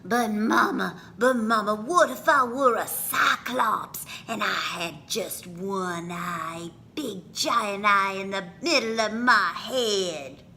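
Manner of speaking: child quizzing mama, lightly voiced. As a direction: ask mama playfully.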